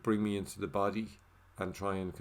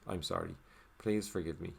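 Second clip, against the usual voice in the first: sincere apology; 2 semitones lower, 3 dB quieter than usual. Shown as a demonstration. Offering a heartfelt apology in the practice, sincere and soft. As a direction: let the sorry sink, soft and sincere. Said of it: "for whatever part I may have played in it".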